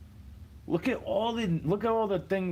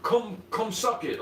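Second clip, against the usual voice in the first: higher, drawn-out taunting catchphrase; D-Generation X; 5 semitones higher, slower than usual. Retold or imitated. Comic quoting a wrestling crew's catchphrase, higher mocking taunt. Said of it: "like D-Generation X".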